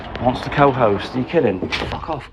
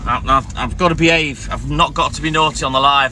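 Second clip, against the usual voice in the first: getting angry. Real, not acted. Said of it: "I'm getting angry".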